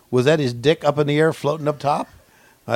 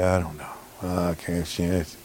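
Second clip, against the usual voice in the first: lightly voiced Heenan; 6 semitones lower than usual. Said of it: "Heenan said".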